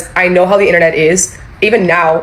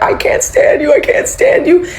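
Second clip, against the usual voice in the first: retold screaming; 11 semitones higher, slower than usual. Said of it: "I'm screaming. I'm crying".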